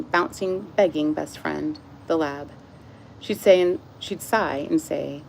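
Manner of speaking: steady audiobook-style narration; book reading. A narrator's reading. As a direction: read the story calmly to the viewers. Resumes reading the book aloud.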